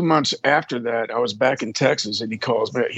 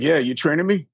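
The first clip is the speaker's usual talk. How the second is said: cocky; 3 semitones higher than usual. Retold or imitated. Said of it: "just all cocky and shit".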